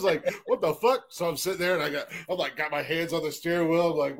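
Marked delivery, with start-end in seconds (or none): 0.5-1.0 mock disbelief. Retold reaction to cops.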